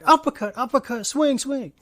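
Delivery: high, urgent punch-by-punch shouts; acted fight-fan yelling. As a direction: bark commands like a cornerman. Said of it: "You yell at the T V like".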